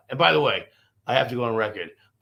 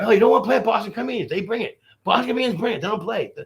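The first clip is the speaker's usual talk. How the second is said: emphatic insisting; 9 semitones higher, 5 dB louder than usual. Retold or imitated. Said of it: "I kept telling the guy".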